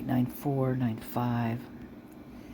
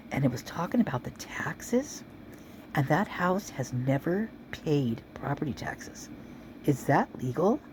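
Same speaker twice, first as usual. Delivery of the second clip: whispering; 3 semitones higher, slower than usual. Real, not acted. Gossipy aside about frat taxes.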